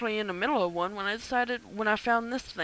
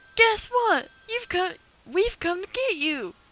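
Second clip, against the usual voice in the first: put-on girl voice, higher and louder; 10 semitones higher, 4 dB louder than usual. Voicing a game character greeting the new neighbor: put-on girl voice. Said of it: "It's so hard to do a girl voice".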